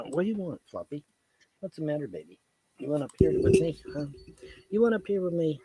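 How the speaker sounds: cooing to a pet. Real, not acted. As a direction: sweet-talk the puppy. Talking to his dog Floppy.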